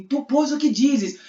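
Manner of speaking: accusers questioning. Acted. Men challenging Jesus for his verdict, insistent. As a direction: put the question as a demanding mob. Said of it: "porque os homens, ele falam assim".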